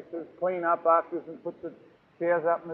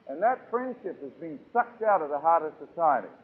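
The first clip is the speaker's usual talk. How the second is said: ordinary delivery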